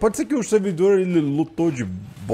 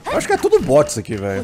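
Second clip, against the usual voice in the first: exasperated; faster than usual. Real, not acted. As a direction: blurt it out in disbelief. Same words repeated, much higher.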